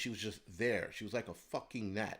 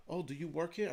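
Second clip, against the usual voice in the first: higher-pitched polite question, lightly imitated; imitated lady shopper; 7 semitones higher than usual. Lady shopper asking him for help, lightly imitated. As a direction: mimic an enquiring customer. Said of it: "One lady was like".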